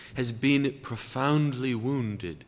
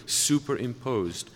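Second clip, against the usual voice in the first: "superimposed" set apart and weighted; stressed word. Shown as a demonstration. Preacher stressing "superimposed" to his listeners, weighted. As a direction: lean on "superimposed" alone. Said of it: "and I stress that word".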